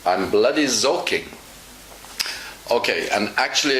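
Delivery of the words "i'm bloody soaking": mock German accent, soaking as "zoking"; German-accented reply with z for s. Teacher retelling the joke's reply, German accent. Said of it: "And the German says".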